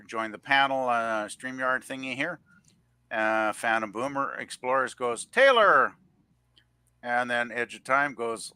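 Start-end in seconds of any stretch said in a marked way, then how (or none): 5.2-5.9 high, loud name call; hammed-up, raised greeting shout; playful call-out. Calling out a chat member's greeting.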